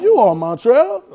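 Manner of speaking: "You are" set apart, then "Montreal" rising; stretched "You are", own name "Montreal" on a rising tune; personal affirmation. Shown as a demonstration. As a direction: declare "You are", then lift "Montreal" like addressing yourself. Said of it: "say it like you're saying to your name".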